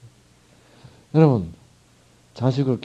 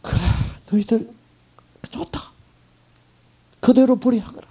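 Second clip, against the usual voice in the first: right way, with love; heartbroken, loving letting go; 11 semitones higher than usual. Acted. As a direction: let them go with a breaking heart. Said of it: "진실로 사랑을 품고 읽어야 돼요".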